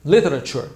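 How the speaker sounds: literature read as Portuguese, literatura-like, stressed on tu; Portuguese-style reading. Shown as a demonstration. Teacher contrasts the Brazilian way of saying literature. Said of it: "a sílaba tônica no português".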